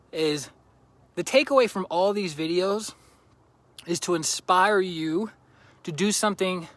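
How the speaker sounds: slightly breathless; out of breath. Real, not acted. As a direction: speak a little winded from walking. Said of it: "I don't know why I'm out of breath".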